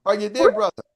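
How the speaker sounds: normal talking voice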